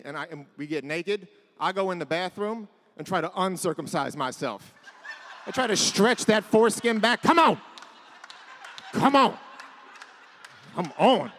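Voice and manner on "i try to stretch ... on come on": loud strained pleading, rising pitch; straining grunts. Acted. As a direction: strain hard as if tugging. Straining acted foreskin stretch.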